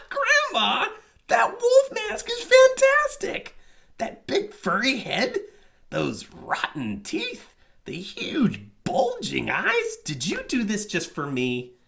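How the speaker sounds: put-on very high, slow, excited little girl; delighted girl. A narrator's reading. Girl admiring the wolf mask, high delight. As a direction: gush with childish delight.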